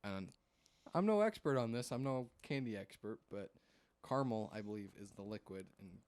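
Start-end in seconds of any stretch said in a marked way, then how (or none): 4.1-4.5 caramel said as "CAR-mel"; caramel with the middle vowel dropped; two-syllable pronunciation. Shown as a demonstration. Explaining the liquid candy, caramel as "carmel". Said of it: "my distinction between 'em".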